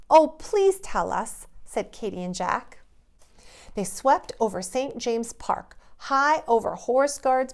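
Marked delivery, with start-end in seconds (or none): 0.1-1.5 higher, louder, slow; children begging to know; eager plea. Acted. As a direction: beg eagerly. Children begging Father Christmas.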